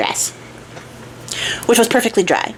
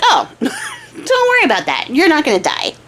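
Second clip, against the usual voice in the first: airy dismissal; 9 semitones higher than usual. Retold or imitated. Horse telling the archer not to worry, high and airy. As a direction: wave the worry away in a high voice.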